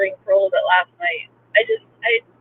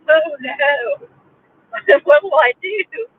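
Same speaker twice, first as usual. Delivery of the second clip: mock despair; 4 semitones higher, much slower than usual. Mock despair over video game withdrawal.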